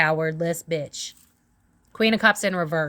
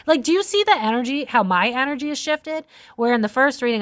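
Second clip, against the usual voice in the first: fired up, higher-pitched; agitated, pitched up in disbelief; worked up; 6 semitones higher than usual. Real, not acted. Tarot reader showing her shifted energy, worked up. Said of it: "Now I'm pissed".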